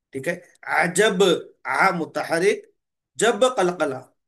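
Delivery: अजब spelled slowly, आ मुतहरिक, then जब with कलकला echo; slow spelling demo. Shown as a demonstration. Teacher modelling अजब for the students. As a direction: draw each syllable out for the class. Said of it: "इस तरह हम इसको पढ़ेंगे".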